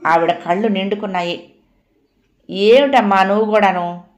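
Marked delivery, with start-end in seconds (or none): 2.5-4.0 louder annoyed protest to mother; mild peeved complaint; irritated. Acted. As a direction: snap back in exasperation. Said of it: "Sumitra విసుక్కుంది".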